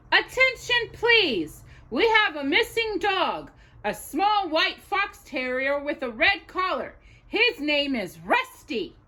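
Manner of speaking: lightly voiced shop announcer; store announcement. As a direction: announce it over the store speakers.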